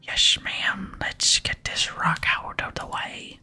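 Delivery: slow, drawn-out whispered character voice; whispered dwarf demolitionist. Acted. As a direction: whisper it slowly, stretching and slushing the words. Plays Burntof in game dialogue.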